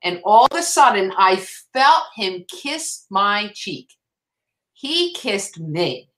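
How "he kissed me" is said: slow, soft, deliberate wonder; tender, drawn-out telling; hushed awe. Real, not acted. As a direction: linger softly over each word, in awe. Awed telling of being kissed.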